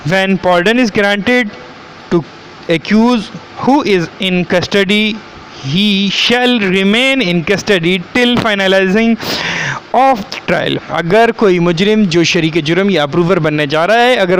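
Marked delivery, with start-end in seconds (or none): 0.1-10.8 slow, deliberate reading of legal text; statute read-out. Acted. Lecturer reading the law to students, slow read-out. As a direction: read it out slowly, word by word.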